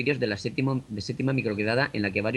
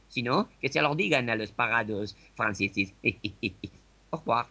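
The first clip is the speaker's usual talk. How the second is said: put-on raised, hammy French accent; 4 semitones higher than usual. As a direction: play a smug Parisian. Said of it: "Desde París, Ramón".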